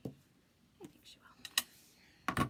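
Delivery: a slow, breathless whisper, almost to herself; slow tender whisper. Real, not acted.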